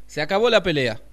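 firme. Acted. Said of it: "dijo el elefante".

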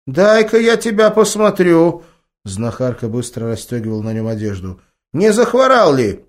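put-on a village healer fussing over the boy; fussing grandma. A narrator's reading. Grandma checks grandson for illness, high granny voice.

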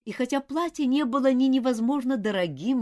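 ordinary delivery, nothing marked

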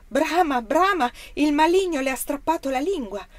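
loud, high cry of horror; horrified shout. A narrator's reading. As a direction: cry out the dreadful news to the crowd. Horrified woman cries out to leader. (grido di orrore, forte e acuto)

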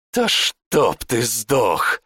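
very slow growling curse; growled curse. Acted. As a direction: drag out the death wish through a growl. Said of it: "прорычал Жбаш".

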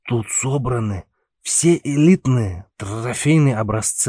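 put-on slow, slurred drunken bragging; slurring drunk. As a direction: stumble over words like a drunk. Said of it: "заплетающимся языком вещал ему Пауль".

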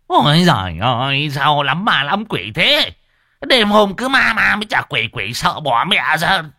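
high, loud frightened wail; hammed-up scared complaint; startled panic. A narrator's reading. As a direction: wail in terror at the ghosts. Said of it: "nghe có quỷ thì giật mình".

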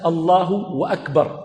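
slow "الله أكبر" with "wa" inserted before a full "أكبر"; drawn-out "Allahu wa-akbar"; added waw. Shown as a demonstration. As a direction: put a w, then the glottal stop, before "أكبر". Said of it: "بالواو".

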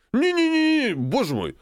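frantic high squeal of denial; panicked. A narrator's reading. Drunk colonel panics. (испуганно, высоко)

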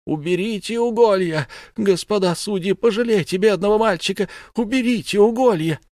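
high, loud pleading scream; desperate screaming. Acted. Mother screams at judges to stop torture, desperate high pleading. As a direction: beg the judges with all her voice. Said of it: "и только кричала".

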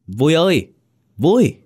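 high, loud call from far away; a ghost calling her name from afar; ghostly distant call. A narrator's reading. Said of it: "tiếng gọi của chồng cô... như thoảng trong gió". (tiếng gọi ma quái vọng từ xa)

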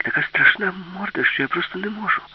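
put-on high-pitched voice of a scared girl; mild fright, pitched well up; frightened. A narrator's reading. Alisa tells what scared her underwater, frightened. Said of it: "і так злякалася".

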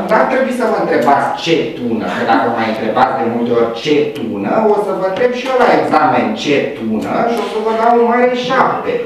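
normal talking voice

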